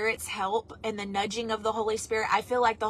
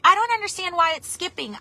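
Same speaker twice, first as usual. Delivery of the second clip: imitating daughter; 7 semitones higher, 3 dB louder, faster than usual. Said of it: "my daughter was like".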